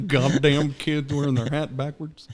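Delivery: put-on slow cranky old man; grumpy old man. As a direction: grumble like an old coot.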